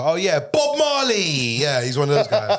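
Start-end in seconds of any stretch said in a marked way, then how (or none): 0.0-1.2 higher, louder, slow stereotype voice; mock Jamaican fan. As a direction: drag out Bob Marley like a clueless tourist. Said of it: "one of them guys that you say".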